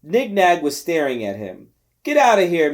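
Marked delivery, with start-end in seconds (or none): 2.0-2.7 a louder, angry "get out"; an old man yells him away; old man yelling. Acted. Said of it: "Manny yelled".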